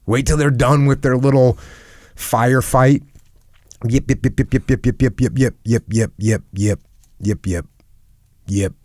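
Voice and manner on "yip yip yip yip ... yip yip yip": yappy chihuahua voice. Retold or imitated. Mimics people bickering like dogs.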